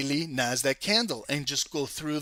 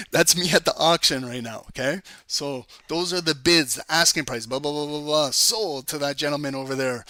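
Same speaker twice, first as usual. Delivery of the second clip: louder, mock auctioneer patter; 4 dB louder than usual. Trader hams up an auction sale for his class, loud mock auctioneer. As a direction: rattle it off like a mock auction caller. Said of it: "That's my auctioneer voice".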